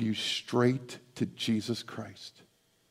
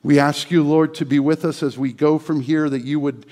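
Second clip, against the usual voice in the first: closing prayer; 4 dB louder than usual. Acted.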